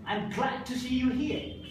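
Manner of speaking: "glad" picked out with emphasis; sentence stress. Shown as a demonstration. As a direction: lean on "glad" to get the message across. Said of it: "Why I'm giving stress here".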